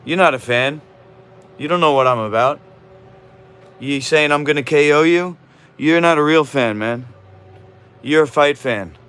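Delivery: loud, indignant scolding; heated rant. Real, not acted. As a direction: tell the viewer off hard. Arguing angrily with a chat viewer.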